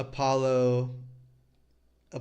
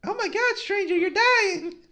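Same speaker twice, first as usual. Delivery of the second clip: very high voice breaking into laughter; squeaky kid voice, giggling; high child voice laughing; 3 dB louder, faster than usual. Acted.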